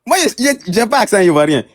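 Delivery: exclamation très aiguë qui redescend; high-pitched "ah!" of real protest, then a challenging question; indignation surprise. Real, not acted. Piqué par la remarque sur l'accent. (indigné, la voix qui monte d'un coup)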